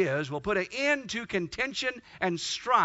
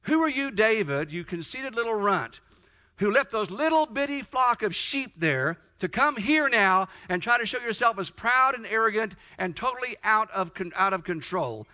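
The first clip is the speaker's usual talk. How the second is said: lightly acted scornful telling-off, pitched up; retold scolding; 3 semitones higher, 3 dB louder than usual. Older brother hears David and scolds him, mock indignant. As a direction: dress down an upstart little brother.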